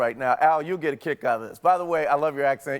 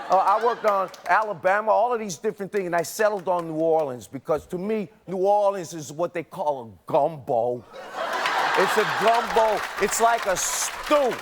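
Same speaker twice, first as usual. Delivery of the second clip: put-on Brooklyn accent; 2 semitones higher than usual. Confessing his Southern accent is a scam, mock Brooklyn accent. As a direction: play a mock native Brooklynite. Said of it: "I come from Brooklyn".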